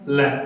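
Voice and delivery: "लैम" ending on the m, no b; silent B. Shown as a demonstration. Teacher showing students how lamb is said, silent B in "लैम". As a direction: say "लैम" with the final b left silent. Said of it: "बी का उच्चारण हम नहीं करेंगे".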